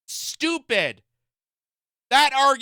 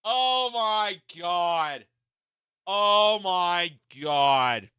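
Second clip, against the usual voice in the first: disbelief; 2 semitones lower, much slower than usual. Real, not acted. Disbelief at news claim.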